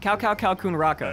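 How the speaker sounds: 'Cow, cow, cow, coon, raka' 일부러 미국식으로 틀리게; badly Americanized Thai, on purpose; American accent. Shown as a demonstration. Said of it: "as American and wrong as I can".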